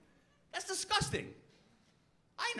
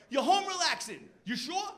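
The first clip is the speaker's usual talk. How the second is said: suspicious boss; 5 semitones higher than usual. Retold or imitated. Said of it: "My boss, Andy".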